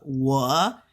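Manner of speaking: 我 rising steadily; teacher's demo of an upward 我. Shown as a demonstration. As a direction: say 我 with an upward glide. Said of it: "it'll go up".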